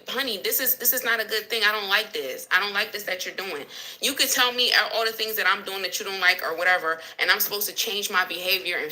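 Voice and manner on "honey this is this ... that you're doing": softer, calm, tender objection; gentle complaint. Retold or imitated. Wife softly telling husband she doesn't like what he does, gentle. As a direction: ease it to him kindly, not accusing. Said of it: "if I'm telling you".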